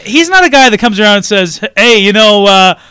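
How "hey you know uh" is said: loud, breezy fake reassurance; mock friendly. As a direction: cheerfully warn of doom. Mock friendly villain warning.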